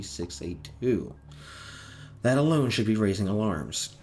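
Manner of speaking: flat, even monotone delivery. Acted. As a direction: speak in a cold monotone. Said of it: "the monotone voice speak".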